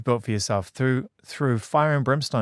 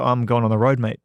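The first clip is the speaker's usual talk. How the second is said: mock blunt answer; 5 dB louder than usual. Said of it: "And you go".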